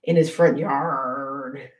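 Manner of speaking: slow, low drawn-out "yard"; pirate punchline. Acted. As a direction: stretch "yard" like a light pirate growl. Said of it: "where did the pirate put".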